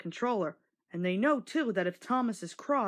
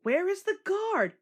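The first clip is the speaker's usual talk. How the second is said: much higher slow drawn-out call; whistling call; 10 semitones higher, 3 dB louder than usual. A narrator's reading. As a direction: let it ring out like a whistle. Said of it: "whistled Thomas".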